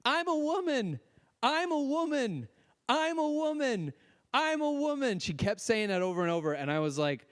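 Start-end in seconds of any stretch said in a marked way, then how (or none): 0.0-5.2 high-pitched mock holler, each cry falling at the end; retold wail in a raised, insistent pitch; imitated hollering. Woman in parking dispute hollers over and over, mock hollering. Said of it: "she starts hollering".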